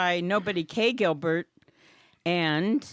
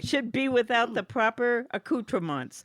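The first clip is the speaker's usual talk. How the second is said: keeps the hammed-up French accent going; mock French accent; 2 semitones higher than usual. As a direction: reads the card like a bad French impression. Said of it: "that accent, phenomenal".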